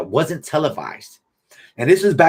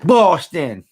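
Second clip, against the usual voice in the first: high, loud shocked "What? Boston."; mock disbelief; 8 semitones higher, 5 dB louder, much slower than usual. New Yorkers hearing a Boston fan, mock shocked outrage. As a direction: act out locals appalled at a Red Sox fan. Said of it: "They'd be like".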